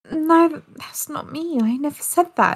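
high, whiny imitation of a lying wife; mock denial. Imitating the wife denying it on the phone, high and whiny. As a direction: squeak out a hammed-up denial. Mimics wife's shrill denial.

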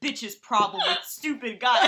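reading through laughter; laughing. Retold or imitated. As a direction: read it out laughing. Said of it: "reading friend's note aloud".

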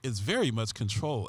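lightly done low-key TV detective murmur; a hint of a brooding crime-show cop; understated TV detective read; David Caruso voice. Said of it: "I'm gonna use a David Caruso voice".

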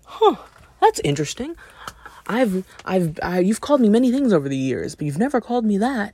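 high surprised huh, then fast; mock-surprised coach, rushing on; amused surprise. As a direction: caught off guard, half-joking. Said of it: "and he's like".

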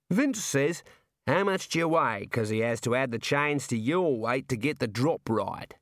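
drawn-out, cheerful Australian jailer; jovial Aussie warder. Acted. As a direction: play a chummy outback prison guard. Warder relays hangman's question.

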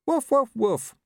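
high, loud spoken woofs; talking dog. Acted. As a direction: prompt insistently with worded barks. Dog prompting the rider.

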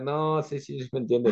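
high, eager reassurance; insisting reply. Retold or imitated. Father insisting Coqui does understand, in a high, eager voice. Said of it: "Que decían".

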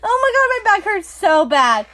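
pained giggles through the words; real laugh-crying; laughing till it hurts. Real, not acted. Laughing so hard back hurts.

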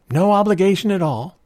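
voice faltering. A narrator's reading. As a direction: let the voice falter nervously. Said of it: "his voice faltered".

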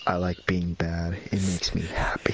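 slow movie-villain quote, trailing into a whisper; mock villain quote. Quoting a bad guy's line to podcast friends, mock villain. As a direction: draw it out slowly, end whispered.

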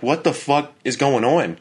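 startled retelling. Retold or imitated. Fiancé to sleeping fiancee in the dark, startled.

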